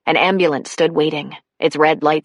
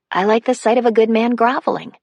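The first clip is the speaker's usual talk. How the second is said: through her tears; 6 semitones higher than usual. A narrator's reading. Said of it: "she said through her tears".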